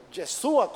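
Yeshua with the middle syllable stressed, ye-SHU-a; stress on second syllable. Shown as a demonstration. Preacher showing others' variant, Yeshua stressed ye-SHU-a. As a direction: put the weight on the SHU of Yeshua. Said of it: "poniendo la fuerza en la segunda".

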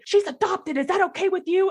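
high, laughing mock-innocent retort; mother answering the nurse, high and laughing; deadpan mom comeback. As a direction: toss it back at the nurse without missing a beat. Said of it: "your mom said".

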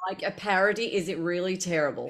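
convincing posh Australian; educated Australian accent. Shown as a demonstration. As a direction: ask doubtfully in put-on Australian. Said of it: "hear me doing Australian".

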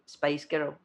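put-on band-name phrase in a Scottish accent, sounding like "space gerrul". Shown as a demonstration. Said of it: "in a Scottish accent".

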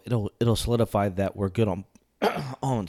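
throat catching on water mid-sentence; choking on water. Real, not acted. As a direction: talk through a throat full of water. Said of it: "like, choking on water".

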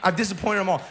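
proud laughing emphasis. Shown as a demonstration. Repeats line louder, laughing.

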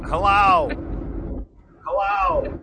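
very high squeaky hello. Real, not acted. High greeting into phone.

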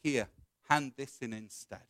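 low, soft murmur in the ear; hushed secret aside; confidential whisper. Acted. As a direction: slip it to them quietly, voice dropped. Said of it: "he whispers in your ear".

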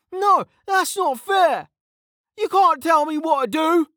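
high-pitched indignant tantrum; outraged shouting. A narrator's reading. Mage refusing to be sent back to camp, outraged shouting. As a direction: shout your protest in a high voice. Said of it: "Kettle shouted".

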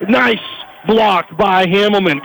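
excited shout. Real, not acted. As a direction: call out the block with a burst. Big defensive play.

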